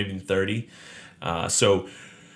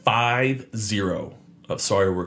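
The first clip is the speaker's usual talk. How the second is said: lightly played ringmaster call; slow showman announcement to the crowd; 4 semitones higher, 4 dB louder, slower than usual. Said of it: "Ladies and gentlemen, boys and girls".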